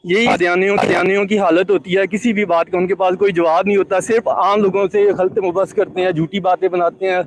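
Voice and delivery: breaking up over a bad line; choppy, dropping out signal; voice cutting out. Real, not acted. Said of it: "आपकी अगरचे आवाज़ cut रही थी".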